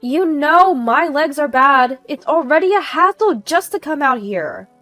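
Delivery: high, loud grievance; aggrieved scolding. Acted. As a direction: complain loudly as if put upon. Angry neighbor grumbling at the door.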